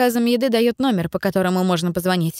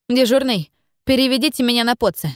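raised voice, calling into a radio on the run; talking while running; 5 semitones higher than usual. Acted. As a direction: speak up into the radio while jogging. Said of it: "попросила она на бегу".

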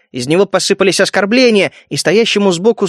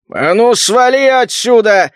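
angry shout; 2 semitones higher, slower than usual. A narrator's reading. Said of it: "заорал чёрт".

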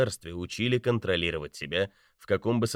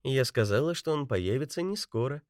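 purring; 7 semitones higher than usual. A narrator's reading. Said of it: "промурлыкала Бетти".

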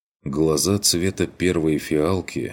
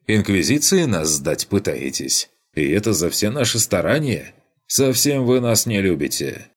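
mock hurt; 5 semitones higher, 3 dB louder than usual. Student teasing with mock hurt.

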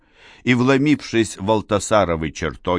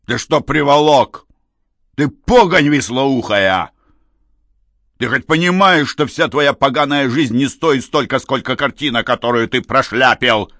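angry boss yell; 5 semitones higher, 5 dB louder than usual. Acted. Бандит орёт на подручного.

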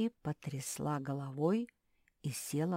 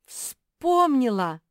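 shouted high with joy; sudden gleeful cry; excited; 9 semitones higher, 13 dB louder, much slower than usual. A narrator's reading. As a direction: blurt it out, jumping up. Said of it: "подпрыгнула Мафи".

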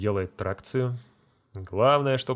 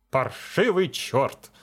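reproach; 3 semitones higher, slower than usual. Acted. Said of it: "выговаривает он".

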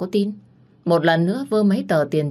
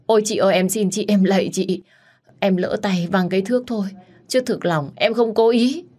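desperate pleading; 4 semitones higher than usual. Acted. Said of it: "Nó vùng vẫy van xin".

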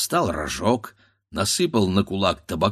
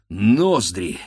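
ordinary delivery

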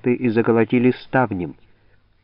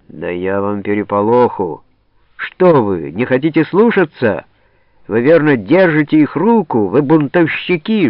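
гневный окрик; 4 semitones higher, 5 dB louder than usual. Acted. Голова в ярости на десятских.

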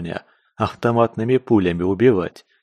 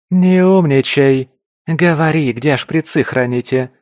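angry yell; 6 semitones higher, 6 dB louder than usual. Acted. Белка to the captive, furious yell. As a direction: snap at the smart-aleck with fury.

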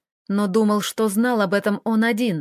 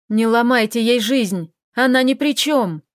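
отчаянная мольба; 4 dB louder than usual. Acted. Рома умоляет похитителя.

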